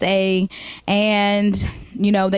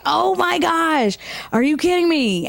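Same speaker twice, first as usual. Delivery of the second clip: much higher, slow, mock-horrified; appalled; 7 semitones higher, slower than usual. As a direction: drag it out in disbelief. Appalled inner reaction.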